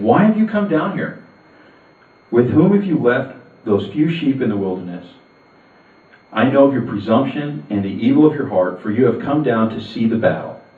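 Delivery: a big brother snapping at his sibling; angry older brother. Acted. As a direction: scold the little brother with contempt. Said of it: "Eliab's anger was kindled against David".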